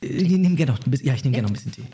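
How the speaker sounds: talking between sips of tea; words around a sip of hot tea; while sipping a drink. Real, not acted. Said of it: "Ich schlürfe zwischendurch mal Tee".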